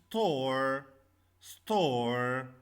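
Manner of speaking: "store" as one syllable ending on R; silent final E. Shown as a demonstration. Teacher showing the unpronounced E, "store" drawn out to the R. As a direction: hold "store" long, no sound for the E. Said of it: "the last E we not pronounce it".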